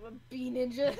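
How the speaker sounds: loud, high playful bee ninja. Pretend. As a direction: announce yourself as a bee ninja.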